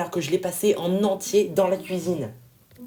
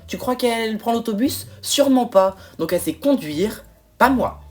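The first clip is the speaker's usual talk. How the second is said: building to indignant loud bursts on "Sûrement pas" and "pas moi"; wife spiralling into jealous panic; agitated outburst; 4 semitones higher, 4 dB louder than usual. Acted. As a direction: work yourself up, getting louder, higher. Wife's rising jealous outburst.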